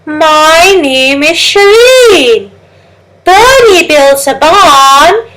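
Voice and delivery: high, slow, airy breathy voice; breathy sigh. Shown as a demonstration. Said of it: "The breathy sigh goes like this".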